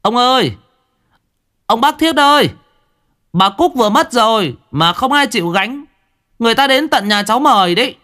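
put-on high, loud panicked child voice; a frightened boy calling out high and fast; breathless child calling. A narrator's reading. Boy rushing in to fetch his great-uncle, panicked high call. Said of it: "miệng hớt hải".

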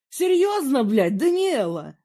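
put-on yelling in disbelief at the girlfriend; furious yell. A narrator's reading. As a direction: explode at her in rage. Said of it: "заорал я".

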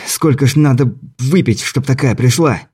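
breathless joke while running; out of breath. Acted. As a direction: huff it out between breaths. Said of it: "сбивая дыхание".

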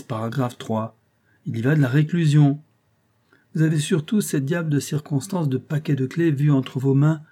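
lightly voiced old clerk, knowing and insinuating; hint at danger like a crafty old law clerk; sly old clerk. Old clerk warns the concierge of her enemies, lightly insinuating.

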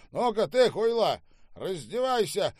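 loud, high-pitched angry order; bullying command. Acted. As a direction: browbeat the servant. Штаубе orders the servant about. (грубый окрик, приказывая)

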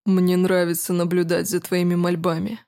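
calm, commanding, a hint of mockery; lightly voiced cool nobleman; smug prince. Prince's voice in the story.

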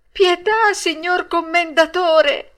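very high, loud, drawn-out plea; pleading. A narrator's reading. Pinocchio tries flattering the puppet master with titles, high and pleading. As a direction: plead loudly, stretching the words. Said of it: "con voce supplichevole".

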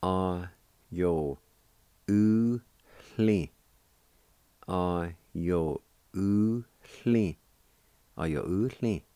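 "A-yo-u-hli" said slowly and clearly, syllable by syllable; teacher models "A-yo-u-hli" three times; Cherokee word demo. Shown as a demonstration. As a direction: model "A-yo-u-hli" for learners to copy, each syllable distinct. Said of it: "is pronounced like this".

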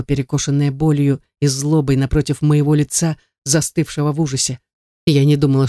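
ordinary delivery

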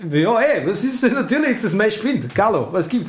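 hammed-up Austrian accent, cocky. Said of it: "Mach Mario Götze mit österreichischem Akzent".

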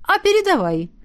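deliberately cheerful. Acted. Molly covering her confusion, mock-chipper exclamation. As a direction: brush it off with fake pep. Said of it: "нарочито бодро воскликнула".

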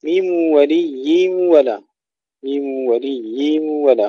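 slow recitation, ولي with long merged nasal glide; clear kasra. Shown as a demonstration. Teacher models ميم ولي ولا, careful kasra on meem. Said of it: "هنا ننتبه إلى كسر الميم".

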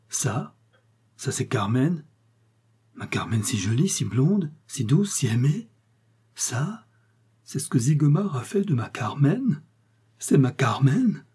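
rising, unbelieving questions; dazed horror, pitch climbing; stunned disbelief. Acted. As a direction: refuse to believe the head is hers. Lover stares at severed head.

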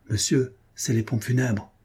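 grave reply. Acted. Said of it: "répondit gravement".

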